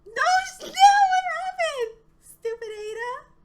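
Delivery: very high, loud frantic scream; panicked shout. Real, not acted. Timer about to run out.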